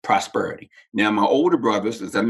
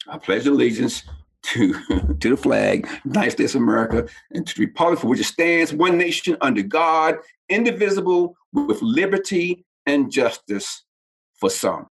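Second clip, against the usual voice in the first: defiant pledge; 4 semitones higher than usual. Retold or imitated. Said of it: "That's how I said it".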